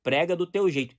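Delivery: mild fervent preacher voice; forceful preaching. Shown as a demonstration. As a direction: push prega do teu jeito out like a fervent preacher. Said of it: "tom de voz mais alto".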